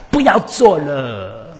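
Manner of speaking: curt command. Retold or imitated. Leader snapping out an order.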